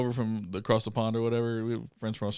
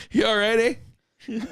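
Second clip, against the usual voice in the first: concerned teammate; 10 semitones higher than usual. Retold or imitated. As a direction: play the worried teammate asking, eh. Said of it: "The entire bench was like".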